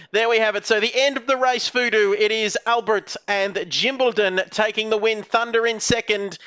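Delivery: projected commentator wrap-up of placings; race result announcement. Real, not acted. Commentator tells Voodoo who took the win, race result announcement. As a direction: announce the winners to close the race.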